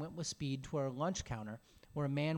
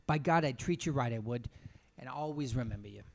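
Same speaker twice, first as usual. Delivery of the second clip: mildly voiced drunk swearing thanks; lightly slurred, solemn gratitude; drunken dignity; 2 semitones lower than usual. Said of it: "He spoke with drunken dignity".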